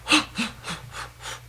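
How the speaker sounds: long, voiceless exhale to let go; releasing breath. Shown as a demonstration. The speaker demonstrating the shake-it-off technique, long releasing sigh. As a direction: breathe the feeling out. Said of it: "just jump up and down and just".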